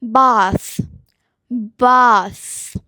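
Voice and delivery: bath ending in a long blown breathy "th"; unvoiced th. Shown as a demonstration. Teacher shows unvoiced th in bath. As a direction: blow air hard through the teeth on bath. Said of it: "So it is unvoiced".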